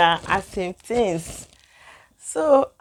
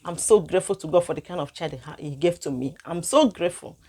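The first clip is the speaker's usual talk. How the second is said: moved; 2 semitones lower, 5 dB quieter than usual. Real, not acted. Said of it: "I couldn't hold my emotion".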